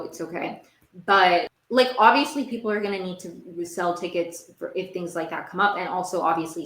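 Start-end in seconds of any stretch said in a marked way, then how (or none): 0.0-0.6 whispered self-comfort. Real, not acted. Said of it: "I wasn't meant to go to that show".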